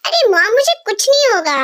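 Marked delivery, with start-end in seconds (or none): none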